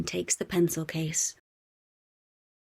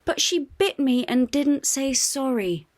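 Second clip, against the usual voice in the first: huffy; 8 semitones higher, 4 dB louder than usual. A narrator's reading. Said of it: "huffs Bluey".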